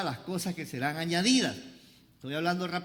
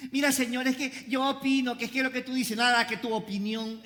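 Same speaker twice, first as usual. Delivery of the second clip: lightly voiced higher-pitched objector; mock protesting believer; 4 semitones higher than usual. Preacher imitating a believer arguing with God, mild mock protest. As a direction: imitate someone pleading their case, slightly raised pitch.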